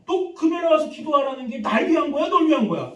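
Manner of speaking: high, loud, indignant rant; retold anger. Pastor retelling his outburst over Friday prayer attendance, angry. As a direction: re-enact an exasperated telling-off. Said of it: "화가 나는 거야".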